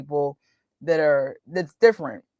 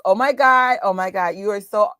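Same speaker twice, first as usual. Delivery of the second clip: put-on a light touch of bubbly girl talk; girly valley voice; 4 dB louder than usual. Imitating how all the girls talked, lightly girly. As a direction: gush it like teen girls did. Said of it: "all the girls talk like this".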